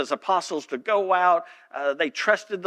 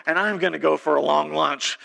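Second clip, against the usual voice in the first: relieved colleague; 6 semitones higher than usual. Retold or imitated.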